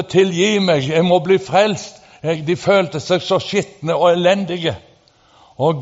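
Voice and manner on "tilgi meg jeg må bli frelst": crying out. Retold or imitated. Preacher retelling the repentant crowd's cry, mock plea. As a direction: call out as if begging Jesus.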